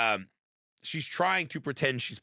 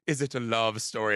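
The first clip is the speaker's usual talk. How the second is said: slow, drawn-out mock Cockney delivery; Cockney ghost impression; slower than usual. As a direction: stretch it out like an old Cockney sailor telling a tale. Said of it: "talks like an old fucking Cockney sailor".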